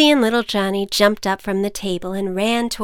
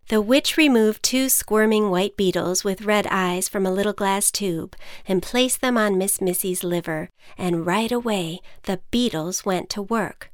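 usual speaking voice

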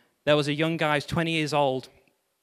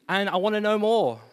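higher, lightly voiced eager woman; imagined emailer's voice; 6 semitones higher, 4 dB louder than usual. Preacher quotes a seeker's email to the church, lightly voiced higher woman. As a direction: lift it lightly into the email writer's voice. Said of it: "she sounds like this".

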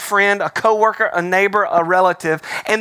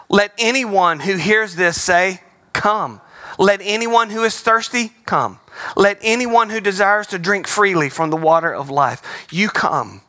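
measured preaching read; scripture reading. Acted. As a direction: read it out like a preacher drawing them in. Reads scripture with build.

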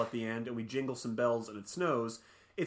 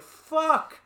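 exasperated parent; 6 dB louder, slower than usual. Retold or imitated. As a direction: vent like a worn-out parent. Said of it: "And then you're just like".

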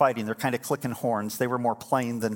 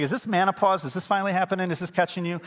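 high playful wife voice; mock the husband like his wife; teasing wife; 8 semitones higher, faster than usual. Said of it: "She's like".

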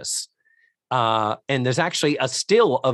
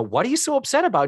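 imitating Natalie; 11 semitones higher, much faster than usual. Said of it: "Natalie's like".

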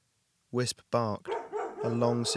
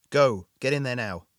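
sharp loud order; urgent command; 3 semitones higher, 9 dB louder than usual. A narrator's reading. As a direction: bark it urgently. John ordering wife to hide.

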